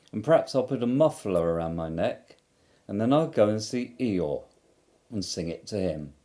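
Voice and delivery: easygoing bear thinking aloud; lightly voiced Pooh. Pooh planning aloud to himself, mild bear voice. Pooh's voice in story.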